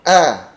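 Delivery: A stretched long; drawn-out A. Shown as a demonstration. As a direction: pull the A out. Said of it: "ini agak ditarik". (A ditarik panjang)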